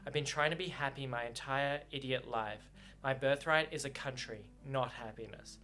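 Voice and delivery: reading the novel aloud with feeling; audiobook-style reading with lightly voiced lovers; story narration. A narrator's reading. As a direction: read the book's lovers' quarrel to the listeners.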